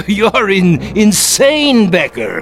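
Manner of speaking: furious rant. Acted. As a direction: rage at the madman accusing you. Captain rants at ghost.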